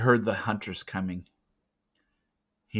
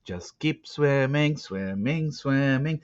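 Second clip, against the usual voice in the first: whispered urging; 4 semitones higher, slower than usual. Acted. Teo whispering to Ram as he swims, unvoiced urging. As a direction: whisper him on across. Urging swimming wolf softly.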